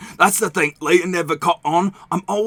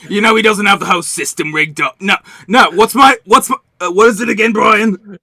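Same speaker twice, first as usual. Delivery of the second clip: mock-offended; 4 dB louder than usual. Mock-offended at forgotten name.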